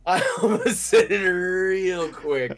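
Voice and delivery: drawn out. Real, not acted. Drawn-out repeat of the confession.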